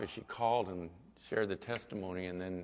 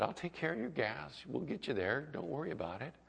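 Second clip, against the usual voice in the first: softer, slightly lifted reassuring tone; calming reassurance; 4 semitones higher, 6 dB quieter than usual. Retold or imitated. Pastor offering to pay a worried woman's gas, reassuring. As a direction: soothe them lightly, as in a retelling. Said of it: "just calmed her down".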